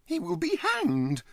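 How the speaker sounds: loud, slow, high certainty; exclaiming with conviction. Acted. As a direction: declare it forcefully. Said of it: "he exclaimed with conviction".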